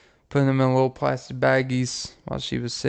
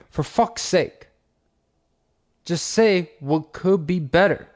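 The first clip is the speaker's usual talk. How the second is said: mock exasperation; 3 semitones higher than usual. Woman begs him to play along, exasperated. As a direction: demand an answer, fed up.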